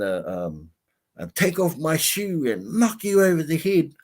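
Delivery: lightly voiced old lady listing her weapons; mild mock-feisty grandma. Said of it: "the lady goes".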